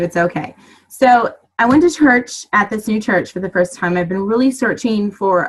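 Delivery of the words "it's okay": reassuring. Real, not acted. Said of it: "I promise you".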